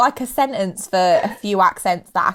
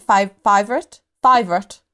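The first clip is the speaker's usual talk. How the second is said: put-on copying a South African accent; tentative Afrikaans accent, searching for it; 3 semitones lower than usual. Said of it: "trying to think of that TikTok".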